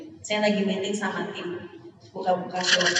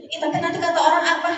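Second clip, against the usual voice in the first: fast, higher mock fret; fretting wife; 8 semitones higher, 5 dB louder, much faster than usual. Wife fretting to husband about others' opinions, mock whine. Wife's worried reply retold.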